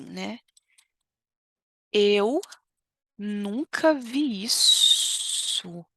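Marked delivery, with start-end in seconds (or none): 1.9-5.8 very slow, stretched mock disbelief; mother's indignation. Teacher imitates the mother's scandalised disbelief. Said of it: "a mãe fala assim".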